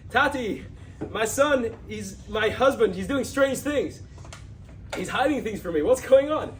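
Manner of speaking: pleading with her father, mildly tearful and high; upset plea. Retold or imitated. Daughter running to her father, a hint of tearful pleading. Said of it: "She bursts into tears".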